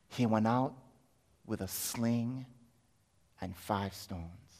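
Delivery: low, soft, slowing to a hush; hushed reveal. Acted. Father telling what he went out with, hushed.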